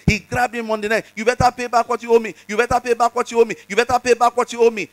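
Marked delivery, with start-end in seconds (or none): 1.1-4.9 fast, raised, repeated threat; mock angry demand. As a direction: rattle off the threat higher and faster. Servant choking debtor, demanding.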